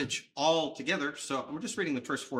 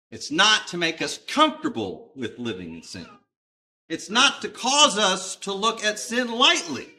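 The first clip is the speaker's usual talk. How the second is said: emphatic preaching; 7 semitones higher, 7 dB louder than usual. Real, not acted.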